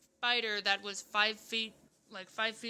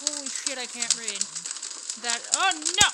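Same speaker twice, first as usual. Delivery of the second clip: surprised; 2 semitones higher, 11 dB louder than usual. Real, not acted. Sudden dismay mid-reading.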